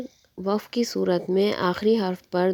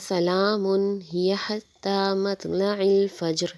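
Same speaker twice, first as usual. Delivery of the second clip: recitation; much slower than usual. Shown as a demonstration. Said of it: "ملا کر پڑھیں".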